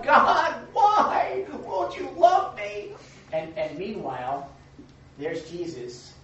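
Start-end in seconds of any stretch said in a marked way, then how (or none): 0.0-2.9 high, loud, slow hammed-up wail to God; much higher, louder, slow comic lament; mock crying out. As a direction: whine it like a wounded cartoon victim. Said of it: "he's crying out".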